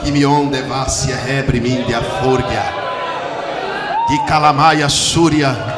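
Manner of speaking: slow, rhythmic glossolalia; speaking in tongues. Real, not acted. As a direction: let the tongues roll out slowly.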